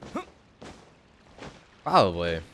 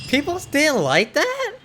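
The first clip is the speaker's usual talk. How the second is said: surprised; 4 dB louder, slower than usual. Real, not acted. Surprised at chat's claim.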